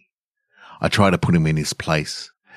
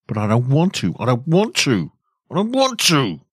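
put-on each "I don't want to" climbs higher, ending in a high childlike whine; childish refusal; 8 semitones higher than usual. Narrator refusing to grow up, voice climbing into a child's whine. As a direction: let the inner boy take over, pitch rising each time.

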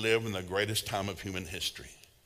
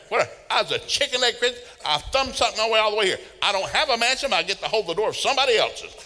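higher, louder mock-whiny voice; higher whiny confession; whiny chicken leg Christian; 11 semitones higher, 7 dB louder than usual. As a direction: play the sheepish believer.

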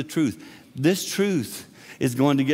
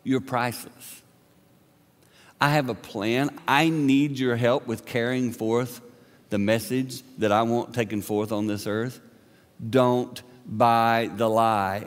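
tender God. Retold or imitated. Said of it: "And God says".

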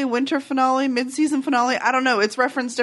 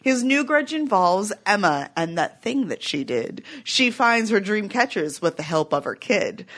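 rhyming recap. Acted. Rhyming episode summary read out.

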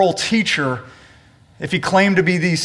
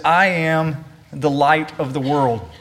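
solemn claim; 4 semitones lower, slower than usual. Shown as a demonstration. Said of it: "this is an extraordinary claim".

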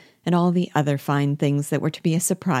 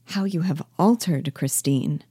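mildly tender, falling at the end; gentle voice. Acted. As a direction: say it gently to an old friend. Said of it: "In a gentle voice".

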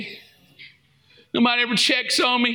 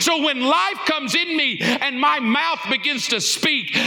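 proclaiming at full force over the music; preaching declaration. Acted. Preacher declaring scripture to the congregation, full force.

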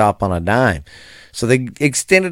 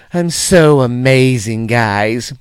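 sarcastic; slower than usual. Acted. Self-mocking after fumbling mic.

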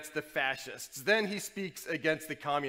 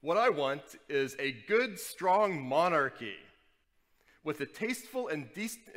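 pompous Ignatius. Retold or imitated. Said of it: "here he's saying what he wants politically".

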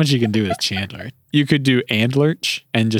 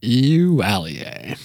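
slow sign-off; much slower than usual. Shown as a demonstration. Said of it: "That's gonna be our new sign-off".

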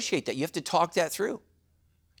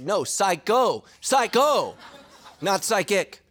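laughing correction; 4 semitones higher, 4 dB louder, slower than usual. Retold or imitated. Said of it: "my wife feels like she married a psychic".

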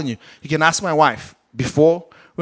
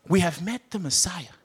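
high, eager calling to a friend; lightly raised eager calls; excited disciples; 5 semitones higher than usual. Retold or imitated. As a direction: voice the thrilled disciples. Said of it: "These are the same ones that said".

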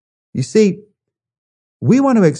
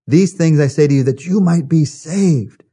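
raised pitch with a strong exclamation-point finish; emphatic; 4 semitones higher than usual. Shown as a demonstration. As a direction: say it like it ends in an exclamation mark. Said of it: "the words that Jesus uses here in the Greek language are emphatic".

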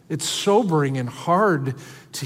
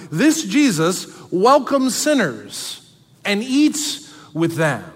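mocking Pharisees; 3 semitones higher, slower than usual. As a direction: mimic the scornful critics. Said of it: "People are looking at Jesus and go".

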